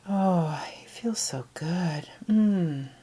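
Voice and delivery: sighed out with pleasure, closing on a hum; contented sigh. Shown as a demonstration. Meditation leader voicing the relief of letting go, sighing contentedly. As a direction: let the words ride out on a relaxed breath. Models relaxing after a breath.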